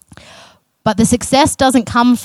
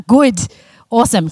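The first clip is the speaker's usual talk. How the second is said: sincere; 3 semitones higher than usual. Real, not acted. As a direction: say Good and really mean it, brightly. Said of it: "sorry, that sounded really sarcastic".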